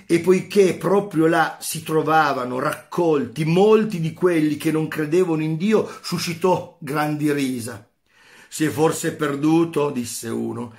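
a teacher reading a philosophy passage aloud with feeling; dramatic reading. Acted. Teacher reading Nietzsche's parable to students, dramatic read. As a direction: read it to the class like a parable, building tension.

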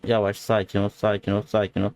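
low, even, repeated soothing; calming. Real, not acted. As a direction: settle it down in a low voice. Calming a car that moves off.

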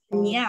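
"nia" as one smooth syllable; nia sound. Shown as a demonstration. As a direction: model the "nia" sound on its own. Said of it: "念这个nia，nia的这个声音".

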